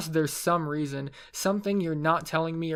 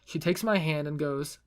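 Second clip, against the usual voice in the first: plain reading voice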